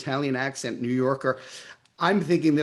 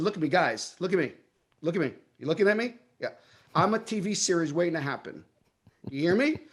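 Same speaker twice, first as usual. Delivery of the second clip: cocksure, self-assured challenge; cocky confidence; 3 semitones higher than usual. Retold or imitated. Actor pitching himself to two agents, cocky and confident. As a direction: lay it down with cocky arrogance. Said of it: "Like this cocky, confident arrogance".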